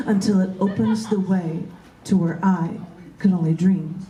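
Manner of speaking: slow, measured poetry reading; poem reading. Acted. Poet reading her own poem to the group, slow and measured. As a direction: let each image land with pauses.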